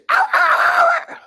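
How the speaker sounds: very high shouted laugh; shrieking laugh. Real, not acted. After mimicking the preacher, shrieking laughter.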